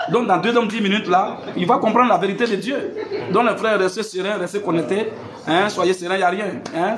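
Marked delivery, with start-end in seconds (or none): 0.1-5.1 laughing while talking. Real, not acted. Preacher chuckling while announcing.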